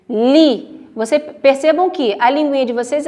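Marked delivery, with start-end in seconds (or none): 0.1-0.9 LI said slowly, mouth barely open; tongue to the palate for a narrow LI; near-closed mouth. Shown as a demonstration. Teacher showing how li is pronounced, narrow and careful. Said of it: "a boca de vocês quase não abrem".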